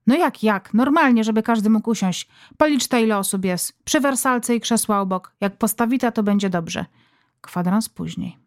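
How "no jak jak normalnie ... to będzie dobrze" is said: lightly voiced mother, impatient and bossy; mother snapping instructions to her daughter. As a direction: brush off the silly question.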